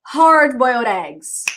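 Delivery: slow, deliberate "Hard boiled eggs"; slow teacher drill; slow model. Shown as a demonstration.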